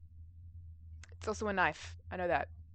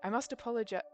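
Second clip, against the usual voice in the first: slightly raised voice, breaking off; false start on a character voice; 4 dB quieter than usual. Acted. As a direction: begin the apology in character, then stop short. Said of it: "that's the crabby old man".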